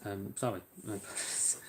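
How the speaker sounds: mid-yawn, words stretched by a yawn. Real, not acted. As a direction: say it through a yawn.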